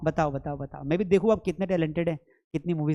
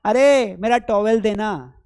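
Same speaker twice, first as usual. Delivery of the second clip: calling family; 2 semitones higher, 4 dB louder, slower than usual. Retold or imitated. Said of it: "घर वालों को बोलेगा".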